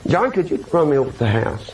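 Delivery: low, casual request; very calm. Retold or imitated. Driver asking for a ride after a wreck, very calm. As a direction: ask it evenly, as if nothing happened. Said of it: "I was just very calm".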